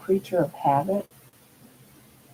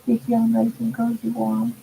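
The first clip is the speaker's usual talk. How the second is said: talking to a dog; 4 semitones higher than usual. Real, not acted. Talking to her pet.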